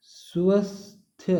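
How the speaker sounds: slow whisper, drawing out स्वस्थ sound by sound. Shown as a demonstration. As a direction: breathe स्वस्थ out slowly, letter by letter.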